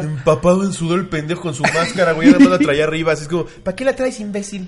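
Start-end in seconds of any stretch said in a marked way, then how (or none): 3.6-4.7 higher-pitched mocking jab, breaking into a laugh; exasperated mock scolding. Telling off the moviegoer with the mask, mock exasperation. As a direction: scold him in a raised pitch, amused. Mocking a masked cinema-goer.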